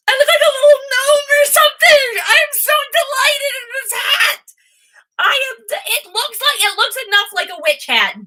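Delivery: very high, squealing excitement; high-pitched gleeful outburst; giddy delight. Real, not acted. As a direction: squeal with delight over the silly hat. Delighted gnome-like squeal over new hat.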